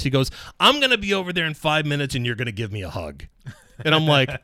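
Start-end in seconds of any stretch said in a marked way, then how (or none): 0.6-3.2 high-pitched, quick celebratory call; excited boss. Retold or imitated. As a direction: imitate a thrilled boss announcing a hug. Boss voiced celebrating good news.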